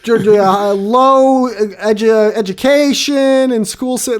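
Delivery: loud, high, slow hammed-up briefing shout; mock reporter voice. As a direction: play up an official giving a report.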